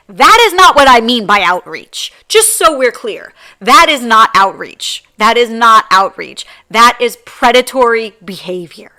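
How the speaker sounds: loud, firm, laying down the line; real anger. Real, not acted. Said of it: "but I was really angry".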